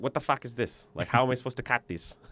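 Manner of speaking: put-on light South African accent; a hint of a South African accent; the speaker's South African accent. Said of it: "with the South African accent".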